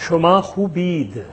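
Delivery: شما خوبید slowly, شما stressed; slow Persian model. Shown as a demonstration. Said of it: "ہم تلفظ کر رہے ہیں". (شما خوبید آہستہ)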